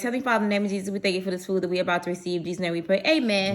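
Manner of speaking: quick, hushed mealtime prayer; saying grace. Real, not acted. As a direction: rattle off a blessing over the food. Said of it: "So let's say grace".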